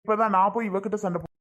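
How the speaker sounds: crying. Acted. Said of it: "அழுகாத".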